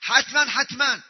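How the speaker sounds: حتماً punched both times; emphatic repetition. Shown as a demonstration. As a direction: hit each word of حتماً، حتماً firmly. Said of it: "نون للتأکید". (حتماً، حتماً محکم و مؤکد)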